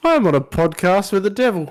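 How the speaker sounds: laughing. Real, not acted. Laughing at devil bit.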